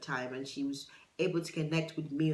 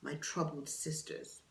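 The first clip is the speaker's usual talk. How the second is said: quoting a song; slower than usual. Retold or imitated. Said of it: "she says".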